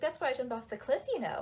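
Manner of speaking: hammed-up casual cheeriness; mock upbeat. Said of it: "in a really upbeat tone".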